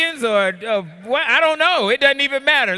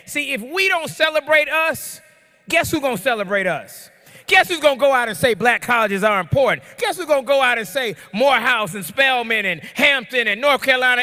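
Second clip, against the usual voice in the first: excited preaching. Real, not acted. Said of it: "I'm loud and I'm excited".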